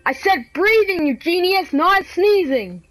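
mad scolding. Real, not acted. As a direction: scold them word by word, stretching the endings. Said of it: "Gosh, I'm mad".

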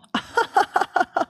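high, loud cackling burst; loud outburst laugh. Real, not acted. Streamer reacting to tech failures, loud high laugh.

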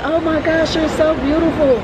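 high-pitched gushing impression of a lady; mock-gushy, high lady voice; gushing older lady. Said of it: "older white tea lady stopped me and was like".

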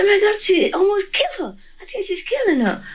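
high, crying voice breaking over the words; a retold anguished cry, pitch jumping up; distressed cry. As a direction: cry out in horror at what you see. Crying out alone to the swan.

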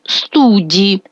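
студі stressed on У, short final І; студі with weight on the first syllable; unstressed final І. Shown as a demonstration. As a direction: lean on У in студі, dropping the І. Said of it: "буде ненаголошений".

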